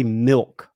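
slow, deliberate "milk" with a standard vowel; correct pronunciation demo. Shown as a demonstration. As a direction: say "milk" slowly with a short i. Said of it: "I say milk d-, weird".

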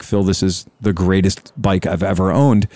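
put-on light, slow Italian accent; lightly imitating an Italian customer's accent. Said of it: "he's got a heavy Italian accent".

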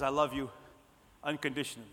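low, softened voice of God; gentle reassurance. Acted. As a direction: let it drop low and quiet. God's answer to shame and guilt.

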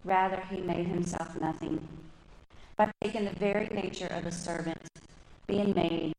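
measured, deliberate reading of the verse; slow scripture reading. Real, not acted. Reading Philippians to the congregation, slow and measured. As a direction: read it slowly, letting each phrase land. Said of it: "I'm gonna read slow".

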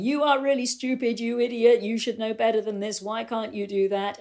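mock berating, starting high and easing down; lightly acted scolding; scolding instructor. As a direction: imitate a critical riding instructor telling someone off. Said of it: "some who were really good at going".

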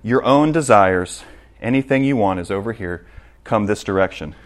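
a hint of a seductive whisper; enticing desires. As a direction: draw them in quietly. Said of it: "That door says".

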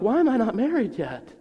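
high, loud complaining why; mock-whining single woman; young women's exasperated whine; whiny young woman. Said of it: "young women who are like".

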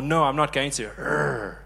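lightly voiced stubborn child with a growl; refuse, then add a grumpy little growl; mock childish refusal. Believer refusing God's correction, mildly mock-childish defiance.

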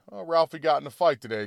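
light, offhand mom remark; casual mention. Acted. Mom mentions the fight to dad, casually. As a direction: drop it in as small talk. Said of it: "Mom says to Dad casually".

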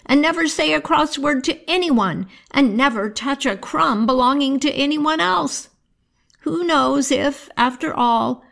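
put-on high, pitying old grandmother near tears; a grandmother weeping over the twins; crying grandmother. Grandmother to the motherless twins, high and tearful. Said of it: "she cried and said".

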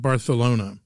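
Barcelona said as Barthelona with the c lisped; Castilian lisp. Shown as a demonstration. Mocking the Spain lisp for radio listeners, Barcelona as Barthelona. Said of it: "say everything with a lisp".

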